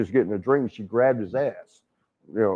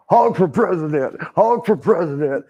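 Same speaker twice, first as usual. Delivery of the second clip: higher-pitched mock chant; imitated rally cheer, giddy; gleeful cheering; 4 semitones higher than usual. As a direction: cheer him on like a campaign crowd. Re-enacting his own gleeful cheering.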